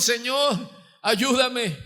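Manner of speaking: crying out to God. Acted. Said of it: "gritamos, le decimos".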